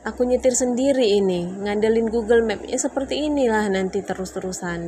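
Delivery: imitating her frustrated husband; mock fed-up husband; husband complaining. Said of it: "Terus dia bilang".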